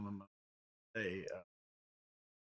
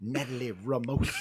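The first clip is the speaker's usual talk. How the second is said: sexy announcer voice. Acted. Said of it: "You said sexy enough".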